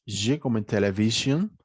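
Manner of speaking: "J" voiced as the zh in "television"; teacher modelling the zh sound of "television"; consonant demo. Shown as a demonstration. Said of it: "vamos a tener sonidos de consonantes".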